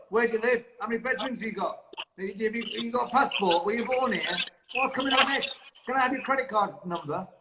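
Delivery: lightly voiced official questioning; immigration officer. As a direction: quiz him like a border officer. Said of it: "are you from immigration".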